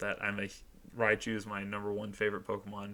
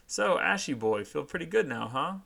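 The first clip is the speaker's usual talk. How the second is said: taunting rival; 5 semitones higher, 3 dB louder than usual. Acted. Gary voiced taunting.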